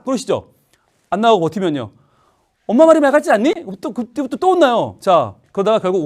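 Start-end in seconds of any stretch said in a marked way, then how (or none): 2.7-3.5 high, loud mock reprimand; acted maternal exasperation; scolding mother. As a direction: imitate a mother demanding to be obeyed.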